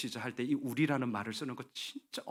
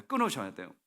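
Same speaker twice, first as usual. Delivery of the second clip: ordinary talk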